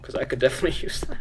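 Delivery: quick whisper with a chuckle; laughing whisper. Real, not acted. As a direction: whisper the joke through a laugh.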